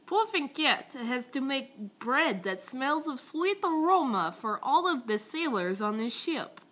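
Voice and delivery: slow, storybook cartoon narration; lightly voiced slow cartoon narrator. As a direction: read it like a kids' cartoon narrator. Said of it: "And then it's like".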